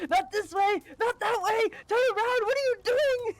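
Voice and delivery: high mock yelling man; mock screaming. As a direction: imitate a man yelling directions. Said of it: "he was screaming at me".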